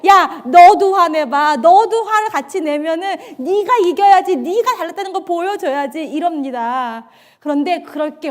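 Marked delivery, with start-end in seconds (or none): 0.1-6.0 taunting Satan. Retold or imitated. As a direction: goad her to anger, loud at first. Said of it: "이 목사를 괴롭혀요". (크게 도발하는 사탄 목소리)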